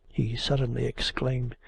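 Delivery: ordinary delivery, nothing marked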